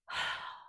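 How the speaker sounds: emotional sigh. Real, not acted. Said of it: "I'm still choking up".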